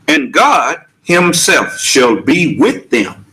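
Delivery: slow, weighty verse with separated words; scripture recitation. Acted. Preacher quoting scripture about God, slow measured recitation. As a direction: recite it deliberately, phrase by phrase.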